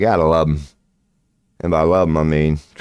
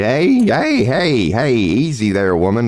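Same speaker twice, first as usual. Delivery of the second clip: mock calming shout; 4 semitones higher, slower than usual. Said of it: "And I was like".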